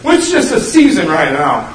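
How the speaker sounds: loud, dismissive everyone-says voice; breezy excuse. Retold or imitated. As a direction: brush it off brightly and loudly. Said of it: "Everybody says".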